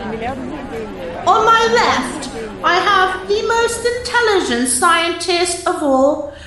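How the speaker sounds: very slow drawn-out ring announcer; boxing ring intro, stretched out. Acted.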